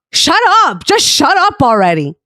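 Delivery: mild mock yell, sharp high onset; retold yell. Angry friend cutting off a peacemaker, mock yell. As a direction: imitate someone snapping at a friend. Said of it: "He yelled it".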